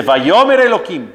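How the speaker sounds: firmly declaimed verse; emphatic quotation. Shown as a demonstration. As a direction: lift the Hebrew words with some force. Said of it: "y le dijo fuerte".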